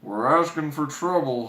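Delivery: huffing. Acted. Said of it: "huffed Grumpy".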